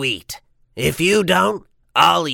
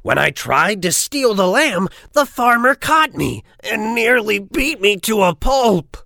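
huffy wolf; 4 semitones higher than usual. Acted. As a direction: complain in a big huff. Wolf in a huff.

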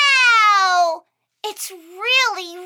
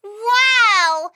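ordinary delivery

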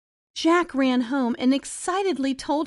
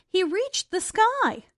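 plain reading voice

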